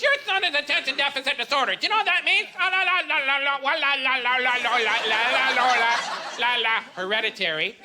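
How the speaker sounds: teacher lecturing a parent, lightly mocking; lightly voiced teacher. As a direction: scold the dad, then babble him off. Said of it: "she's right on my face".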